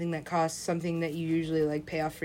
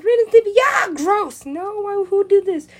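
loud, high-pitched revolted yell; disgusted outburst; 12 semitones higher, 12 dB louder, slower than usual. Retold or imitated. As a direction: recoil and cry out in disgust. Retelling disgusted reaction to cartoon porn.

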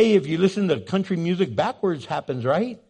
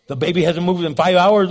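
louder, more anxious repeat of the worry; rising alarm; 5 dB louder than usual. Retold or imitated. Expecting mother growing alarmed about her still baby. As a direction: let the panic climb as the hours grow.

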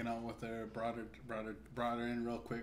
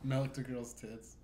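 slow clear repeat; slower than usual. Real, not acted. Repeating the game line for a friend who missed it, slowly. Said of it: "Never have you gotten what?".

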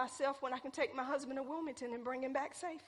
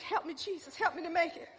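high, loud, fast gasping plea; a comic cry for air in the truck; mock panicked prayer; 6 semitones higher, 6 dB louder than usual. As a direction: ham up being unable to breathe. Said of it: "I said".

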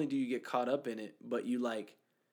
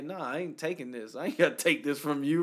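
retold comeback; 3 semitones higher, 4 dB louder than usual. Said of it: "started yelling at me".

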